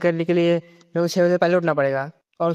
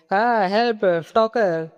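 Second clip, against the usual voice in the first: high, raised cry of help; yelling for help; 4 semitones higher, slower than usual. Acted. Lisa yelling at the stalker, high raised cry for help. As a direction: call out help like she's being chased. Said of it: "लिसा चिल्लाने लगते हैं".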